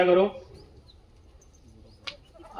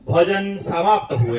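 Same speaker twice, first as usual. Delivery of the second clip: slow, laughing, a ceremonial Bengali announcement; Bengali babu voice; 5 semitones lower, slower than usual. Retold or imitated. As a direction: announce it slowly like a Bengali host. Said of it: "Bengali बाबा ऐसे खड़ा होके बोले".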